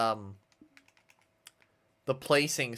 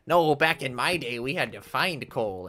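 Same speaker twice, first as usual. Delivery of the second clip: put-on old man voice. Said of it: "How's my old man voice?".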